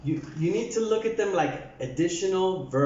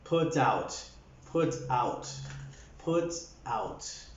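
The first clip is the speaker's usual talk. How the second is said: low, soft "put out", getting quieter each time; softer "put out"; 4 semitones lower, 7 dB quieter, slower than usual. Shown as a demonstration. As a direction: ease "put out" down gently, words drawing apart. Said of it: "it has to be softer".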